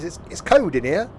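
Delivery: "code" said for cold, no L sound; imitating lost L. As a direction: drop the L in "code". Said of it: "can't pronounce their L's".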